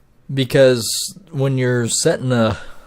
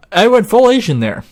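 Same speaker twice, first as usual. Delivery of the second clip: "I went full Asian there" in an exaggerated Asian accent, much higher and louder; mock Asian accent; 12 semitones higher, 9 dB louder than usual. Repeating his line to viewers in a mock Asian accent. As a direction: repeat "full Asian" as a loud, hammed-up caricature. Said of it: "I don't know why I went full Asian there".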